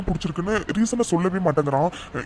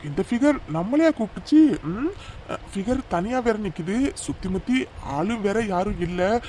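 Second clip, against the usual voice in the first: slow, sly, hushed lecher's voice; sleazy scheming man. Acted. A creep sizing up a woman alone at the bus stop, slow and sly. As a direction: slowly savor a sly plan under the breath.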